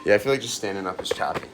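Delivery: echoey locker room, far from mic; recorded in an echoey locker room. Real, not acted. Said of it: "We're still in the locker room right now".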